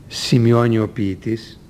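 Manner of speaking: "σημειώνει ο ποιητής" slowed as an inserted aside; slow down and change colour on "σημειώνει ο ποιητής"; parenthetical tone. Shown as a demonstration. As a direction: mark "σημειώνει ο ποιητής" off from the quote. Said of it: "Εκεί αλλάζουν τον τόνο της φωνής".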